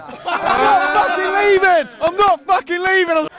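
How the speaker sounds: stubborn fan refusing to leave; defiant. Real, not acted. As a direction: dig in and refuse to budge. Defiant fan chant at camera.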